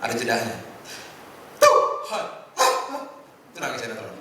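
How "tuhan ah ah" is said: high, hammed-up melodramatic sob with gasping pauses; mock telenovela weeping, much higher and louder; soap-opera crying. Shown as a demonstration. Preacher mocking soap-opera prayers, high hammed-up sobbing. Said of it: "Saudara tahu nangis sinetron gimana?".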